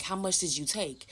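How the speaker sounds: retold whisper. Daughter asks mom how much she took, whispered. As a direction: ask it under your breath, suspicious.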